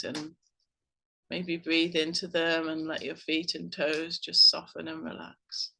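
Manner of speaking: unhurried meditation guide with long pauses; guided meditation. Acted. Host guiding listeners to breathe and relax, calm meditation voice. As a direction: gently lead them into relaxing, leaving room to breathe.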